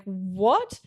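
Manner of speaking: retold stunned question, drawn out and rising; shocked. Reliving the proposal for a friend, shocked. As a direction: stretch "what" upward in disbelief. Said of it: "I was shocked. I was like".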